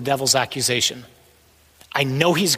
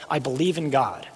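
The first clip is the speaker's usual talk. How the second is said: low, softened statement of faith; quiet declaration; 3 semitones lower, 5 dB quieter than usual. Acted. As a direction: declare it quietly and firmly, with long pauses. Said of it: "I declare in front of hell".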